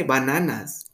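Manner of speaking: "bananas" said as a Spanish word; Spanish-accented "bananas". Shown as a demonstration. Showing what you don't say in Spanish, Spanish accent. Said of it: "But with the Spanish accent".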